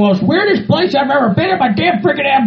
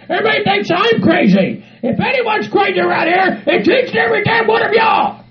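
higher-pitched, worked-up protest; indignant rant; 4 semitones higher than usual. Acted. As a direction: rant back at your accusers, pitch raised. Defends himself, accuses the others.

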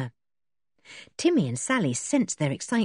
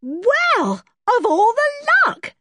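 high, delighted exclaim; can't believe our luck; a burst of delight; thrilled; 7 dB louder, slower than usual. A narrator's reading. Dick thrilled at news.

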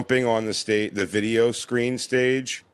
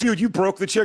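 mock accusing friend; 9 semitones higher than usual. Acting out friends mocking him.

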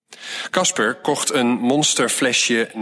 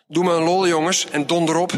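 grumpy call; 7 semitones higher, faster than usual. A narrator's reading. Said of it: "riep ze".

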